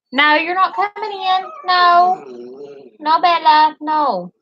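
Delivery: high, loud stern refusal; firm no to the dog. Real, not acted. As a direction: stop the dog at the gate. Refusing dogs wanting in.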